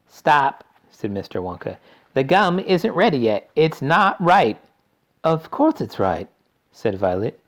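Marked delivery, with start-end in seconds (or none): 0.1-0.6 urgent shout. A narrator's reading. Wonka warning. 2.1-4.6 anxious chocolatier voice. A narrator's reading. Wonka anxious. 5.2-6.3 put-on bratty girl voice. A narrator's reading. Violet insisting.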